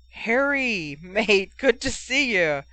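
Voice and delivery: high, loud, thrilled welcome; delighted greeting. A narrator's reading. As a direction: call out happily to a long-lost mate. Teammates delighted to see Harry.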